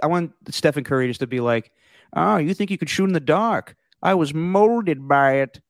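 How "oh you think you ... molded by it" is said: menacing comic-book villain voice, pitched up, taunting. Imagine Stephen Curry talking about shooting in the dark, in a Bane voice. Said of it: "like a good Bane voice".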